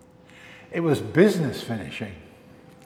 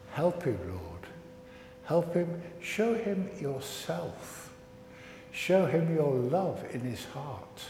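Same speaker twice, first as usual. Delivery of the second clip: slow, hushed leading of a prayer; slower than usual. Acted. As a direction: pray gently for the lost parrot. Leads children in prayer.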